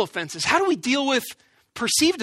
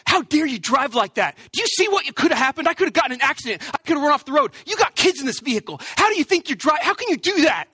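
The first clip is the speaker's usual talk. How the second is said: angry driver; 4 semitones higher than usual. Retold or imitated. Angry driver confronting him.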